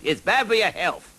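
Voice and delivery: high, loud bold knight's call. Acted. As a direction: muster all the courage you can. Knight advises the dragon.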